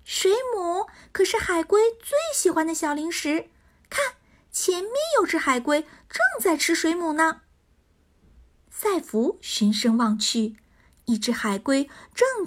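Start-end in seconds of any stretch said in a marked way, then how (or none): 0.1-7.4 high, cheerful pixie voice; a little pixie pointing things out. Acted. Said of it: "耳边传来小精灵的声音".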